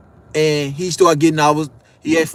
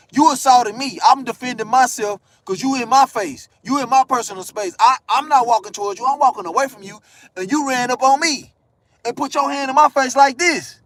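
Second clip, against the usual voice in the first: higher, indignant arguing; heated rebuttal; 5 semitones higher than usual. Acted. To the woman claiming assault, heated protest. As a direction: argue back at your accuser, worked up. Heated argument aimed at accuser.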